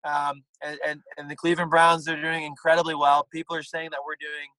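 light Donald Trump impression, punchy boasts. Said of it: "I'm doing Donald Trump".

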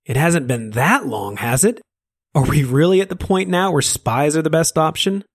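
Finnegan scolds the prisoner for calling him a demon; theatrical Finnegan. Acted. Finnegan voice in story.

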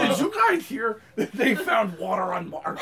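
silly spaceman small talk; comic put-on voice. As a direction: stay in the goofy character, half laughing. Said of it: "Please only talk in the spaceman voice".

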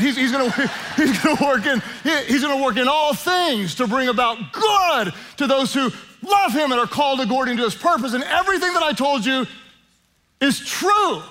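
high, fervent country preacher shout. Acted. Pastor hamming up God working all things for good, country preacher voice. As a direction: belt it out like a country preacher, half laughing. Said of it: "my country preacher voice".

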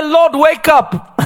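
slow, high, drawn-out plea; mock polite plea. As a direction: gently beg the Lord to wake. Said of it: "They didn't say".

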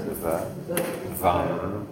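V then vam, quiet; buzzing v sound. Shown as a demonstration. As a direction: softly buzz into vam. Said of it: "Feel where that is".

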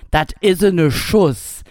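slow, broad Kölsch phrasing; Cologne dialect. Retold or imitated. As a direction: say it like a Cologne local. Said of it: "in Köln sagt man".

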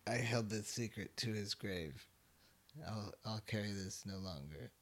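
low, soft, grave delivery; mock solemn confession. Co-host parodying a secret finally revealed, hushed mock-solemn confession.

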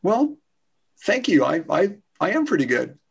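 humble but confident; modest, sincere thanks. Acted. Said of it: "more humble and sincere".

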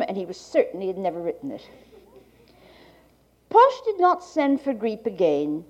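like a 1980s archival tape. Real, not acted. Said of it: "to Gallant's reading".

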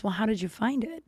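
soft, mildly creepy questioning. Retold or imitated. Friend presses her about the lump, mildly creepy. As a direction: quietly mimic a man prying. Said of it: "It was creepy".

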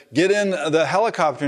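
high urgent hail; calling out. Retold or imitated. Helicopter crew urging woman aboard, high calling out.

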